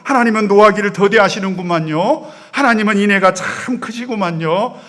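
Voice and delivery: loud, cheeky whine at God; brazen complaint. Retold or imitated. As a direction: talk back to God like a sulking prophet. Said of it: "너무나도 당돌하게 하나님을 향해서".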